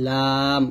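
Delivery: লাম slow, with an ordinary Bengali l; drawn-out demonstration of লাম with a plain front l; Bengali-style lam. Shown as a demonstration. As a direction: stretch লাম out, tongue tip behind the upper teeth. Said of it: "বাংলায় লামের মতো উচ্চারণ করব".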